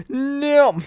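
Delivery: sudden high, loud cry of disbelief; shocked no. Real, not acted. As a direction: blurt it out, genuinely stunned. Streamer reacting to chat news.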